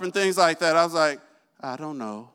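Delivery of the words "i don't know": fake innocence.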